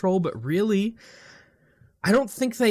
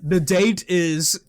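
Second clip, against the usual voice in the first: slow, loud announcer voice; mock announcer; 3 semitones higher, 4 dB louder, slower than usual. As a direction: announce it like a show host. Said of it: "Every episode we gotta start".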